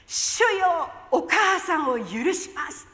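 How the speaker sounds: loud cry with a tearful catch, slowing on the forgiveness; a loud, broken cry of forgiveness. Retold or imitated. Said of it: "ものすごく大きな声で". (泣きながら大声で)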